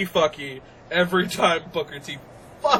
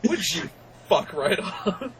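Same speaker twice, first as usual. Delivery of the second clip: laughing. Retold or imitated. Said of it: "And I'm like".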